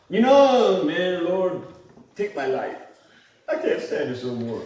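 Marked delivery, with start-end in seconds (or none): 1.2-4.6 desperate prayer. Retold or imitated.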